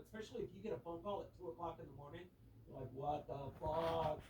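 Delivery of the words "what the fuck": slow, louder groggy what-the-fuck; slow, incredulous curse; drawn-out disbelief. Retold or imitated. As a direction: stretch it out like a rude 2 a.m. wake-up. Woken by a 2 a.m. call.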